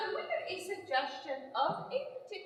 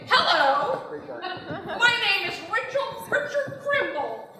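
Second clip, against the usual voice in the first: higher, louder, slow formal introduction; imitating Richard Krimble; 4 semitones higher, 7 dB louder, slower than usual. Wife imitating husband's sleep persona, higher and loud. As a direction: greet her like a stiff polite stranger. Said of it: "he'll say".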